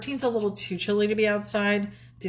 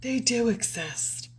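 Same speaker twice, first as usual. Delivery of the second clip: slow, hushed whisper; awed whisper; 4 semitones higher, 3 dB quieter, slower than usual. Retold or imitated. Quoting the M&M's commercial to partner, awed whisper. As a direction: whisper it in mock amazement.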